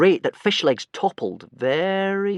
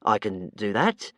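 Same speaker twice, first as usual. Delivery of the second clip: unsure creature; 3 semitones lower, slower than usual. Acted. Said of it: "less certainly".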